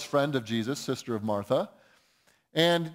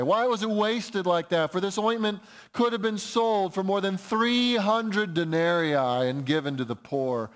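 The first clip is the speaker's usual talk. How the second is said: mildly indignant, raised pitch easing down; 3 semitones higher than usual. Retold or imitated. Preacher quoting disciples on money for the poor, indignant. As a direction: voice their complaint with a touch of indignation. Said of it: "said to themselves indignantly".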